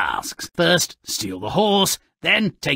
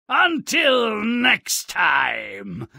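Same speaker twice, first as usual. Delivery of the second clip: sinister sign-off; 6 semitones higher, much slower than usual. Acted. Host's sign-off before cackle.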